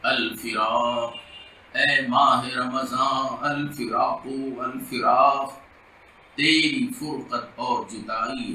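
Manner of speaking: slow, drawn-out devotional verse; farewell poem recitation. Acted. Imam bids farewell to Ramadan in verse, slow devotional recitation. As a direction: recite the lament line by line, stretching the vowels.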